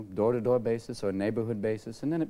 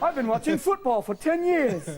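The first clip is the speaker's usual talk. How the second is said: high, loud, slow realization; mock dazed dad; 12 semitones higher, 5 dB louder than usual. Dad realizing he lost years to TV, high and slow. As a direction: stretch it out, astonished.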